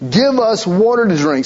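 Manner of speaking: a repeated, insistent demand. Retold or imitated. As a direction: say it as a demand, not a plea. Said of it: "it's demand".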